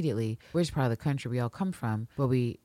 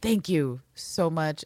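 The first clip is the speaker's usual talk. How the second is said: slow heartfelt thanks; 3 semitones higher, slower than usual. Real, not acted. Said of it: "grateful thanks".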